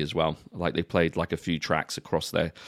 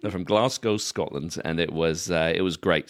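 put-on a light Glasgow Scottish accent. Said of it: "I could do that accent".

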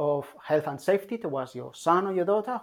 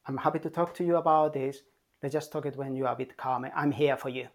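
calm; faster than usual. Shown as a demonstration. Parent reassuring an angry child, speaking calmly. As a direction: soothe an upset child, unhurried and kind. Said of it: "So really calmly, just say".

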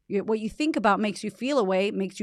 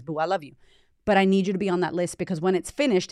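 usual speaking voice

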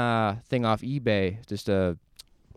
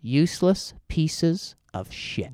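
slow, higher growled mock Busey; Gary Busey impression; 5 semitones higher, slower than usual. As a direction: drawl it out like Busey. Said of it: "that's a Gary Buseyism".

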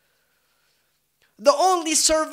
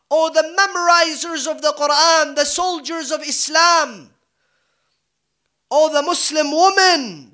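loud preaching call to the faithful; rally the crowd, voice ringing out; roaring rallying speech; 3 dB louder than usual. Acted.

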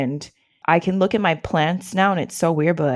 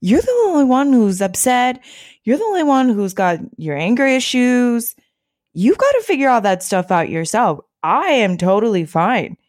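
higher, breezy brush-off; breezy, dismissive sister; 5 semitones higher than usual. Retold or imitated. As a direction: shrug her off lightly. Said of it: "she's like".

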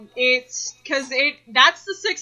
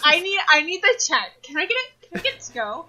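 white customer impression; 5 semitones higher, faster than usual. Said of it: "impression of a white person ordering".

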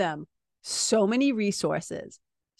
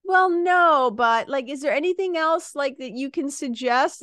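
a client angling for more tips; whiny client; 3 semitones higher than usual. Retold or imitated. Coach imitates a client asking for more suggestions, mildly whiny. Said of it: "And I'll say".

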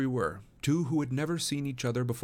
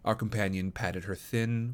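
ordinary delivery

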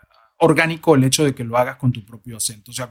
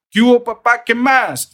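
higher, louder mock Colombian greeting; acento colombiano imitado; 7 semitones higher, 4 dB louder than usual. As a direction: put on a punchy Colombian street greeting. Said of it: "como pasó con los colombianos". (imitando con fuerza el acento colombiano)

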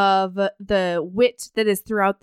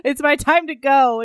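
resigned; 2 semitones higher, slower than usual. Retold or imitated. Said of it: "she's like".

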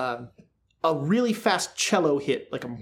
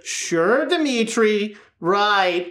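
placating; 3 semitones higher, 3 dB louder, much slower than usual. Shown as a demonstration. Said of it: "if you're placating him".

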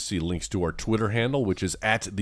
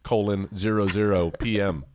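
reading punctuation aloud; dictating. Pretend. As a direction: dictate it to the car. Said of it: "I'm dictating".

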